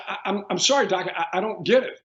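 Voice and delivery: baffled patient. Retold or imitated. Stunned patient to his doctor after good news, mildly baffled. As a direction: stammer lightly as if baffled. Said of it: "And I said".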